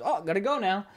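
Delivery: light high mock flee line; a hint of a cowardly knight ducking out; cowardly quip. Cowardly character fleeing combat.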